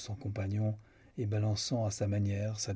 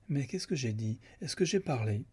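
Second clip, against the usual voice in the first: sudden liveliness; 3 semitones higher than usual. Acted. Julia asking what she said while fainting, suddenly lively. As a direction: fire off the questions with sudden eagerness. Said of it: "avec une vivacité subite".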